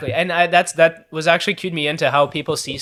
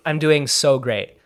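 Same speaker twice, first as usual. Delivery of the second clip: slow fake cheer; much slower than usual. Shown as a demonstration. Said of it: "I usually say".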